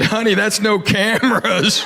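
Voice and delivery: slow, patient correction of cameras; correcting her. Retold or imitated. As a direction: say "cameras" slowly and clearly, like a gentle fix. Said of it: "I said".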